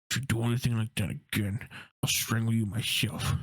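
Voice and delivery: muddled, badly put-on accent and voice; hammy threat in a confused put-on voice; terrible Harry impression. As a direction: try a menacing impression and botch it. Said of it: "That was a terrible impression".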